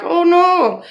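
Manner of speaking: a high mock "oh no" broken by laughter; laughing as she plays her younger self saying no; laughing mock denial. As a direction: spit out a laughing fake denial.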